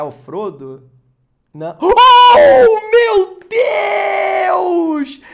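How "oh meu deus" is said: shrieking oh my God, very high and loud; excited scream. Real, not acted. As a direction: scream with joy at the pull. Screams at a rare pull.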